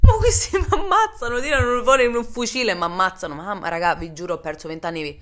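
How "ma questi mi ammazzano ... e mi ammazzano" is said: loud, very high laughing panic. Retold or imitated. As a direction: scream it out half laughing in terror. Panicked inner thought, imagined shooting.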